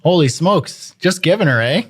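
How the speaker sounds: playful put-on Canadian reaction; mock Canadian amazement. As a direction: play up a Canadian accent. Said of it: "give me a little Canadian response".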